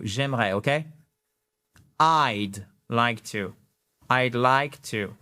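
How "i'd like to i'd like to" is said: I'd like to run together as one sound; teacher modelling a smooth I'd like to; one quick sound. Shown as a demonstration. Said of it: "un seul son rapide".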